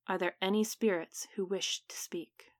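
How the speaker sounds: breathy hushed seance whisper; eerie whisper. Acted. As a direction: whisper it into the dark room as if spirits listen. Medium calls the spirits in darkness.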